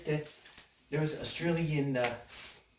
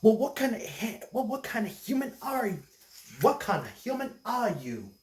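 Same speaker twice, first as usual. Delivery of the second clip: screaming voice; 8 semitones higher than usual. Acted. Glaring Australian friends demanding an answer, mock screaming. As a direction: screech the question in a raised voice. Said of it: "they say with a screaming voice".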